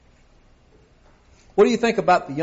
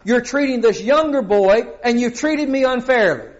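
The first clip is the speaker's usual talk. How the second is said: put-on whiny older son; 5 semitones higher, 4 dB louder than usual. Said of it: "as the older son is saying".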